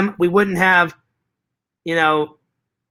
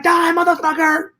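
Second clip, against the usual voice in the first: movie-villain shout; 10 semitones higher than usual. Retold or imitated. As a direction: yell it like an action-movie kill line. Repeats the acted movie line.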